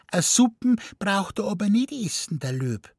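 put-on high, quick child's chatter; cheeky little boy. A narrator's reading. Little boy telling mummy about the pacing lion, high and eager. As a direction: blurt it out like a small boy.

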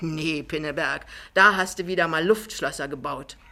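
lightly voiced, emphatic self-defence; self-righteous Jachmann. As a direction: insist firmly on your own innocence. Jachmann rechtfertigt sich wortreich. (leicht aufgebracht sich rechtfertigend)

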